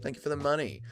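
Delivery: softly spoken gratitude; quiet thanks. Real, not acted. Streamer thanking a viewer for a donation, quiet. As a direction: drop the volume and say it simply. Sincere thanks before mock gloating.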